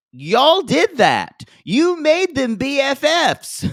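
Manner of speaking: loud, high, drawn-out accusation; shouted, incredulous reproach; exasperated yell. Acted. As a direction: hurl the blame back, stretching each word. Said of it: "I'm like".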